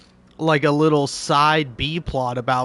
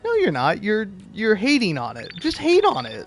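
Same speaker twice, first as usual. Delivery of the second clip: exasperated retort; 6 semitones higher than usual. Retold or imitated. Retort to fake critics.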